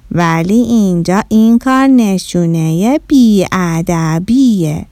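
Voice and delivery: slow, drawn-out mild surprise; surprised. Acted. Neshat tells Bahram it is rude here, mildly surprised. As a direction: stretch it out, a touch taken aback. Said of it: "نشاط با تعجب گفت".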